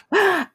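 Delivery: mock gasp.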